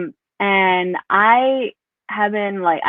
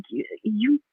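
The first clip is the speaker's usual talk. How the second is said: exasperated outburst; 4 semitones higher than usual. Retold or imitated. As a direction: vent at her like a frustrated daughter. Frustrated retort to mom.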